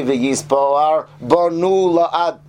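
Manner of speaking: "V'yispar banu la'ad" very slow, with meaning-changing wrong accents; misplaced accent. Shown as a demonstration. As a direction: drag out the misaccented syllables of "V'yispar banu la'ad". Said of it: "that doesn't really make any sense".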